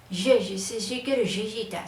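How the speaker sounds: playful rolo impression, leaning on every Y; rolo Y sounds. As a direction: imitate a tight-mouthed bogotano. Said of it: "mucho por el uso de la Y".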